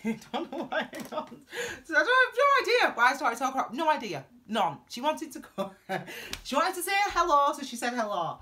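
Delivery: high, loud, helpless laughter through the words; laughing. Real, not acted. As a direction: laugh at your own rambling, pitch shooting up. Laughing at her own rambling.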